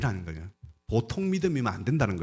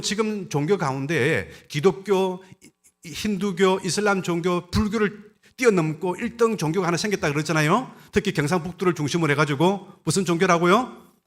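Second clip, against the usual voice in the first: ordinary delivery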